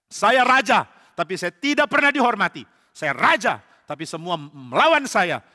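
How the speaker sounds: angry king ranting about betrayal. Acted. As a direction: vent his grievance at everyone. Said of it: "Saul marah sekali".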